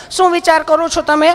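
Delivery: high syrupy nurse; sweet nurse. Retold or imitated. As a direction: coo the question. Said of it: "nurse asking".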